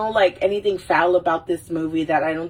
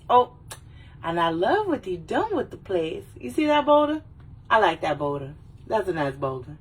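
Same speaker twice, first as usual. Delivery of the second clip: chatty excited Donkey impression; lightly voiced talking donkey. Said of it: "And he goes".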